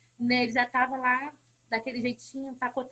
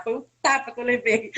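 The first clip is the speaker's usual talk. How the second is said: tearful; 2 semitones lower, 4 dB louder than usual. Real, not acted. Recalling the pastor's hard words.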